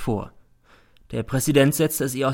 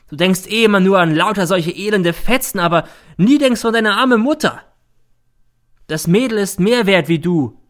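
high, loud, ever more frantic; hysterical; 9 semitones higher, 7 dB louder than usual. A narrator's reading. Mother ranting hysterically at her son. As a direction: let it run away into hysteria. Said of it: "wird immer hysterischer".

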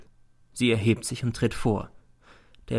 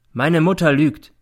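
slow, louder and higher, each word placed; slowly; 6 semitones higher, 6 dB louder than usual. A narrator's reading. Son to the judge about his mother, slow and deliberate. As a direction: lay the words down one by one. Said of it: "sagt er langsam".

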